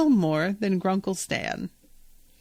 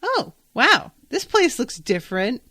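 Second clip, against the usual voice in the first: surprised gasp; 4 semitones higher than usual. Retold or imitated. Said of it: "she's just like".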